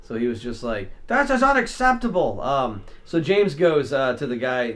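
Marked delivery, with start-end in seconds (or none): 1.1-2.4 retold angry customer. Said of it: "starts screaming at him".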